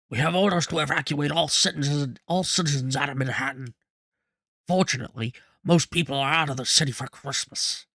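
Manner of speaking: lightly voiced Churchill-style statesman; measured wartime-leader impression, lightly done; Churchillish voice. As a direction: give it a touch of Churchill oratory. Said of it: "do my Churchillish voice".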